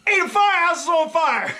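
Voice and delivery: retold yell. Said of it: "I yell".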